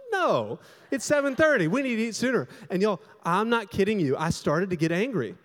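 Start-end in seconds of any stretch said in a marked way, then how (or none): 0.1-2.5 high-pitched, insistent objection; imitated indignant wife. Wife objecting to her husband about late dinner, imitated indignation.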